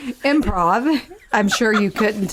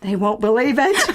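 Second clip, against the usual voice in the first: put-on Southern belle accent. Improvised witness on the opening door, Southern accent. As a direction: play a baffled Southern witness. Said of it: "our Southern Belle accents".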